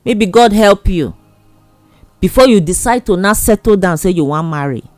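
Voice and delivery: ordinary delivery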